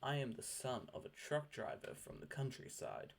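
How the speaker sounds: every word spoken slowly and clearly: "I am the son of a truck driver from the countryside"; measured, careful dictionary reading of "I am the son of a truck driver from the countryside"; slow clear dictionary pronunciation. Shown as a demonstration. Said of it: "that word is pronounced".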